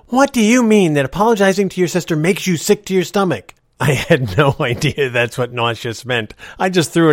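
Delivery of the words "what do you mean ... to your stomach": higher, louder scolding, imitated; mom going off. Mother scolds child for nauseous remark, imitated angry outburst. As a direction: act out an outraged mother telling off her child. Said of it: "my mom went off on me".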